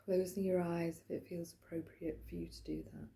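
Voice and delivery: light meditation-leader delivery with long pauses; guided meditation. Acted. Wellbeing practitioner settling listeners into the chair, guided meditation. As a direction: gently guide them into stillness, unhurried.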